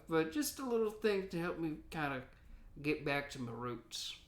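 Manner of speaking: a hint of a grizzled gold miner; old prospector voice. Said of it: "and then there's Old Prospector".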